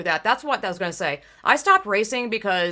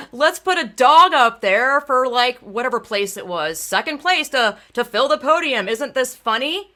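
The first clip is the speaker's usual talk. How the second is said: mock nonchalant organizer; 3 semitones higher, 4 dB louder than usual. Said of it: "all nonchalant".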